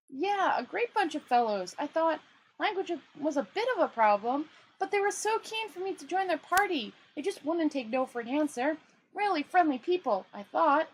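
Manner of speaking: high, chirpy tourist voice; cheerfully clueless traveller; naive tourist. Acted. Two Flower cheerfully telling Rincewind about the party.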